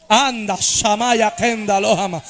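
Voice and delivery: speaking in tongues. Real, not acted. Praying in tongues mid-sermon.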